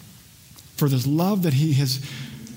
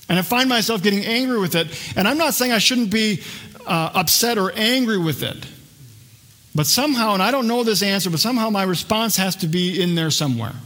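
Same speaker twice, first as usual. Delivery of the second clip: heated; 5 semitones higher than usual. Real, not acted. Admits getting angry.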